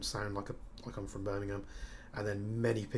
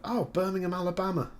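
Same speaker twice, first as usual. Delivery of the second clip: American couple; 10 semitones higher, 7 dB louder than usual. Retold or imitated. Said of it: "And they were like".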